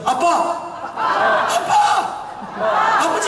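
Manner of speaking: put-on a child calling for dad; cry out Abba. Shown as a demonstration. Preacher leading a second call to God, long and high. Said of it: "다시 한번".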